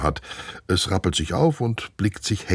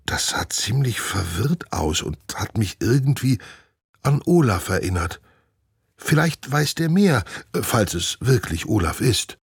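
higher, musing report; lightly voiced glider squirrel Steffi; 3 semitones higher than usual. Glider Steffi tells Nina about the skunk. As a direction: share the hunch, half hushed.

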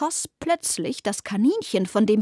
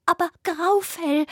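higher rabbit voice calling out; anxious call; 7 semitones higher than usual. Acted. Rabbit calls out anxiously for Graufell. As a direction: cry out worried for a friend. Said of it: "rief das Kaninchen".

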